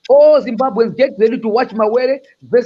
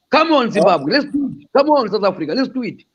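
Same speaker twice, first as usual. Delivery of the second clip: emotional rallying call; happy, emotional; 3 semitones higher than usual. Real, not acted. Speaker rallying Zimbabwe and South Africa, happily emotional. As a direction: urge them on with happy emotion. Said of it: "I was getting emotional because I'm happy".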